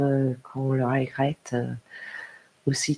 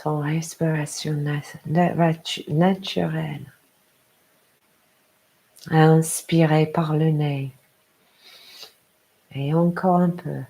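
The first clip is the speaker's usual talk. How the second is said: guided meditation. Acted. Yoga teacher to a parent settling down, guided meditation. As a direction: lead them gently into rest, unhurried.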